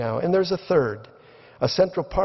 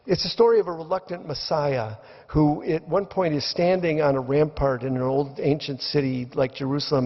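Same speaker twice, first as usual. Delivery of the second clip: normal talking voice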